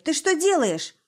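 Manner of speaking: high, loud alarmed yell; shouted challenge. A narrator's reading. Son confronts father.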